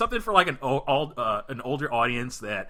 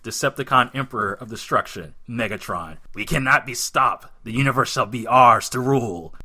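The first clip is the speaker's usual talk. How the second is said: Megatron; 5 dB louder than usual. Acted. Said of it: "you be Megatron".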